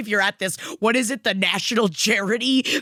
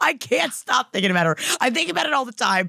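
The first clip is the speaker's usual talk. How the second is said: talking through real laughter; laughing apology; 2 semitones higher, faster than usual. Real, not acted. Cohost confessing an awkward fixation to her friend, laughing. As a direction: confess it while trying not to laugh. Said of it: "I'm laughing about Nancy Guthrie".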